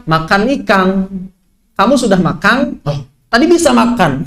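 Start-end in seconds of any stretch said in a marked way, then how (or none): 0.1-0.9 "ikan" ending in ng, as "ikang"; Bugis final ng. Shown as a demonstration. Teacher imitating Bugis speakers at a pause, final ng. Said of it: "kalau wakof ditambah G huruf-huruf N". 1.8-2.8 "makan" ending in ng, as "makang"; Bugis final ng. Shown as a demonstration. Teacher imitating a Bugis question, final ng. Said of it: "kalau di akhir jadi makan".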